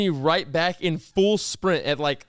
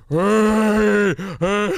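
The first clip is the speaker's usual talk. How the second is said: sudden loud call of hey; teammate's surprise yell; retold scream; 3 semitones higher, 5 dB louder than usual. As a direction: shout hey across the court at a teammate. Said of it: "like, screaming".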